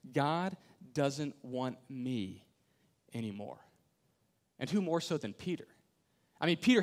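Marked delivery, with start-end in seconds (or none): 0.1-3.6 slow despair. Acted. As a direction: let it sink heavily. Voicing disciples' despair.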